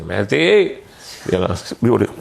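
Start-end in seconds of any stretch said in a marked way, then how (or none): 0.0-0.8 calling the maid. Retold or imitated. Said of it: "saya panggil pembantu saya".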